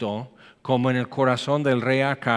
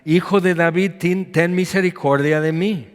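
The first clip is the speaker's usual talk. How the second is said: calling out louder, pitch up; crying out; 3 semitones higher, 4 dB louder than usual. Acted. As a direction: cry out for mercy above the crowd. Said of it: "grita y grita".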